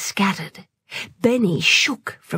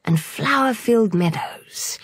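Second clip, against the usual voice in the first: relaxation intro. A narrator's reading. Narrator asks listeners to close their eyes, soothing. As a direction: ease the listener into the countryside, unhurried.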